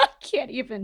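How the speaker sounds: speaking through laughter. Talking about a tv episode with another speaker, laughing.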